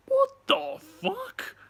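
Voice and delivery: high, drawn-out shocked outburst; confused shock. Retold or imitated. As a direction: blurt it slowly, way up high, in baffled disbelief. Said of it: "both confused but shocked".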